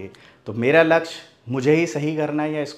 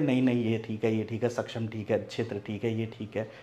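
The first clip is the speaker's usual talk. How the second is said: dismissive quote; 5 semitones lower, 8 dB quieter than usual. Retold or imitated. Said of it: "लोगों ने ये कर दिया".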